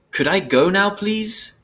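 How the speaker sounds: put-on high, exasperated girlish plea; impatient child wanting to leave. A narrator's reading. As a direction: ask pointedly, pitch climbing on please. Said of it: "she asked impatiently".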